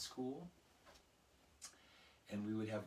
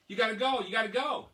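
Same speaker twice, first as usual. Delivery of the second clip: put-on much higher, louder kids begging; urgent pleading; 11 semitones higher, 14 dB louder than usual. Classmates urging Emily to fetch the teacher, high and loud. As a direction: plead with her like a panicked kid.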